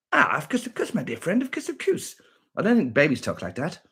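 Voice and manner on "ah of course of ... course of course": high-pitched silly catchphrase voice; put-on quirky voice. Streamer acting about for a buddy, high silly voice. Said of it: "like a baby the other".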